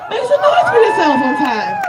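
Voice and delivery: hype call to crowd. Real, not acted. Hyping the crowd.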